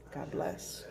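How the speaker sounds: whispered goodbye; whispering. Real, not acted. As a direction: breathe the farewell softly. Whispered sign-off.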